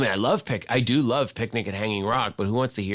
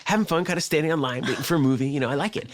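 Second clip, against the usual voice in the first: Quentin Tarantino; 8 semitones higher than usual. Retold or imitated. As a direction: wave off the invitation in a high, chatty mimicked voice. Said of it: "He's like".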